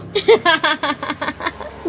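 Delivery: long prankster's laugh; teasing laugh. Acted. Daughter laughing at her frightened mother, teasing. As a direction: laugh at having spooked them.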